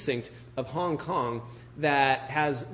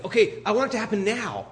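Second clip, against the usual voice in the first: impatient whine; 7 semitones higher, faster than usual. Retold or imitated. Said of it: "and it's like".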